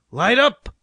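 loud, high shouted command; ordering. A narrator's reading. Stanley orders the torches lit, shouting. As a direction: shout the signal to the team. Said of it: "ordered Stanley".

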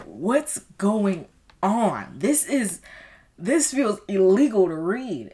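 high, loud, incredulous retelling; acted bafflement. Reader reacting to a spicy book, baffled. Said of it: "I was, I was baffled".

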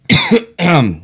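coughing fit after beer; choking cough. Real, not acted. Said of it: "I was choking on my beer".

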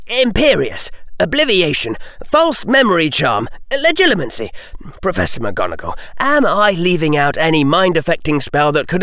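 put-on young boy outraged at the verdict. A narrator's reading. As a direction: protest it in disbelief. Harry questions.

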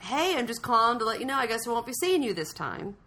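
a hint of a chirpy colleague on the phone; costume lady. Voicing costume lady's phone call.

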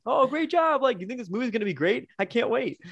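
high mock-enthusiastic praise; clueless nice director. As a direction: imitate a sweet, oblivious director cheering everyone on. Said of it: "He's like".

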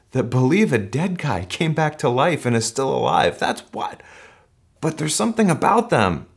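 high, eager, wonder-struck voice; amazed outsider. Pretend. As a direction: play a curious neighbor who is amazed. Imagined outsider amazed by church.

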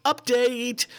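high, loud "Update!" in a mock Canadian accent; announcing "Update!" in a Canadian accent; loud announcement. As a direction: call out the "Update!" cheerfully. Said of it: "This is them".

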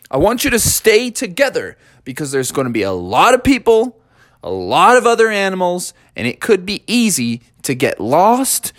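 a caring dad laying down the rules; lightly voiced father warning his kids; fatherly lecture.

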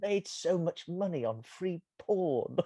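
a hint of his calm narrator voice, eased out slowly; Jon Ronson voice. Host quoting the audiobook, lightly imitating its narrator. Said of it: "in Ronson's voice".

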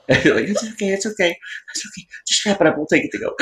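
calm the customer down gently, under your breath; imitating a nervous server hushing a table; mock soothing server. Servers soothing after chef rant.

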